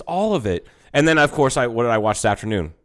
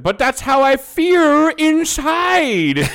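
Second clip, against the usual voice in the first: high, slow mock Chinese accent; imitating a Chinese accent; 6 dB louder, much slower than usual. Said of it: "the way he pantomimes it".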